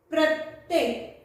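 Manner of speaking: प्रत्येक said slowly, every sound clear; slow clear demo. Shown as a demonstration. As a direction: read प्रत्येक slowly so the class hears प and र. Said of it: "शब्दों का उच्चारण करते वक्त". (प्रत्येक को धीरे-धीरे, हर ध्वनि साफ़ बोलना)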